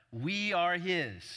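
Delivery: slow, deliberate, with the weight on "his"; stress on HIS. Shown as a demonstration. Preacher showing where the verse puts its weight, stress on "his". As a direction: draw out "we are his", landing on "his". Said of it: "all the emphasis there is placed on his".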